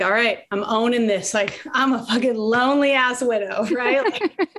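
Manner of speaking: high, mock self-pity voice; lightly hammed-up sad sack; self-mocking lonely widow. To her friend, mocking herself at the cooking class, high mock self-pity. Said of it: "So I'm like".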